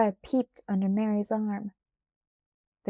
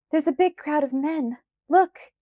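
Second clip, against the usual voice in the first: high and loud, rising to a cry on Look; a frightened girl pointing out danger; cried out; 6 semitones higher, 4 dB louder than usual. A narrator's reading. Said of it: "she cried out".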